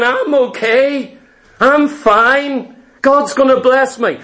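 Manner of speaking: high, insistent mock self-assurance; mocking quote. Samuel mimics the rebel king's excuses, mocking and high.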